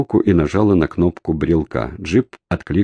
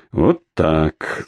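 satisfied; 2 semitones lower than usual. A narrator's reading. Kremnyov admires his bound captive, satisfied. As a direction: savour the finished job. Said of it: "сказал он удовлетворённо".

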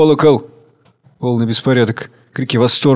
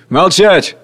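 sharp command; 5 semitones higher, 4 dB louder than usual. Acted. Chairman silencing the hall with a sharp command. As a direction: bark the order to silence them.

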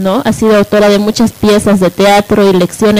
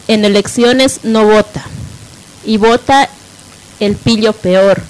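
poem recitation. Acted. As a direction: recite it like a verse of protest. Reads a poem aloud.

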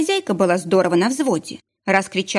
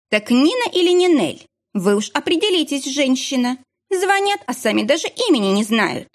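rude scolding clerk; 6 semitones higher than usual. A narrator's reading. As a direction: talk down to the caller. (грубо поучая звонящую)

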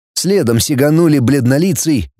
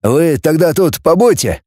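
firm declaration, slightly raised; resolute; 4 semitones higher than usual. Acted. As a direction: announce it with decision. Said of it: "решительно заявил". (решительно)

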